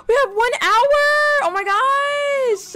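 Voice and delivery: high squealing panic; alarmed. Real, not acted. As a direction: gasp at the short time. Panic at time.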